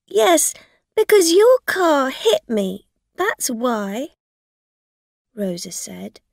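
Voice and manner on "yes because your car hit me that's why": accusing. A narrator's reading. Rosa accusing the driver.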